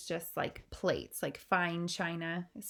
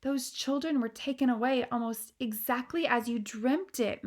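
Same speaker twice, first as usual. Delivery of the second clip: higher, earnest frightened explaining; anxious maid; 5 semitones higher than usual. Acted. Maid Mary explaining to the queen, anxious. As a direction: make the queen see the truth.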